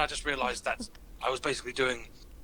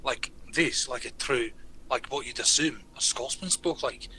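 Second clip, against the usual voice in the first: teacher's Scottish accent, demonstrated lightly; slightly slowed Scottish lilt; 3 semitones lower than usual. Shown as a demonstration. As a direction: speak like a stereotypical Scot. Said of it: "she did this accent".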